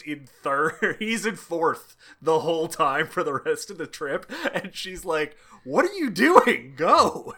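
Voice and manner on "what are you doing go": much higher, louder frantic shout; mock yell. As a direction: yell at the stalling driver to go. She yells at stalling driver.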